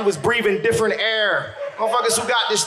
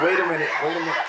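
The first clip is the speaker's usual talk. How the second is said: cop calming her; 4 semitones lower, 3 dB quieter, much faster than usual. Retold or imitated. Cop telling her to calm down.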